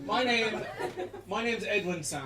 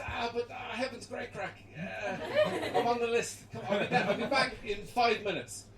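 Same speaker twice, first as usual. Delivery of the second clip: coaxing Jesus; 5 semitones higher than usual. Retold or imitated. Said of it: "Jesus persuading".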